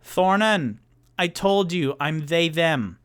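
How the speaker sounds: lightly voiced exasperated bartender; bartender correcting. Bartender correcting Thornan on pronouns, mildly exasperated. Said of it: "the bartender goes".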